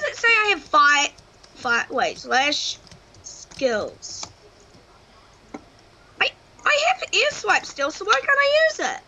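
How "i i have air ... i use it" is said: frustrated disbelief. Real, not acted. Frustrated game not working.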